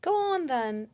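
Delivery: British accent. Shown as a demonstration. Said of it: "Should I do a British accent".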